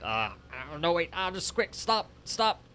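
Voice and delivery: high, loud mock-panicked bailout. Bailing out of doing the voices, in mock panic. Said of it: "and I'm like".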